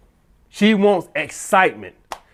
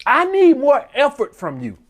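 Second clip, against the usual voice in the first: demanding girlfriend imitation; 7 semitones higher than usual. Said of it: "basically what she's saying".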